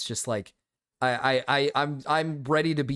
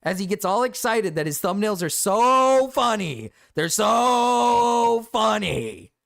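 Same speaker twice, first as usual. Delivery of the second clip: mock excited gushing; 4 semitones higher, 5 dB louder, slower than usual. Mocking Gamma's excitement.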